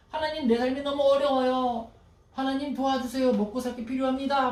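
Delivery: lightly voiced desperate plea for help; pleading prayer. Preacher voicing a struggling believer's plea. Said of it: "막 구합니다".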